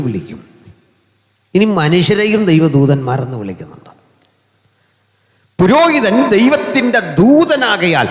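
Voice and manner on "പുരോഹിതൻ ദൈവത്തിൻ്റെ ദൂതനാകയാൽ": booming preaching. Acted. Preacher's emphatic first statement.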